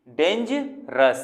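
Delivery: डेंजरस very slow, as डेंज, pause, रस; slow sounding-out of डेंजरस; broken into syllables. Shown as a demonstration. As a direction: split डेंजरस with a gap before the last syllable. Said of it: "ऐसा हल्का हल्का रुक रहे हैं".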